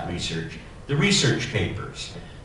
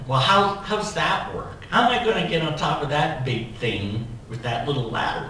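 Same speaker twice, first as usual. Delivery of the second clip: worried disbelief; 4 semitones higher than usual. Retold or imitated. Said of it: "I said to the foreman".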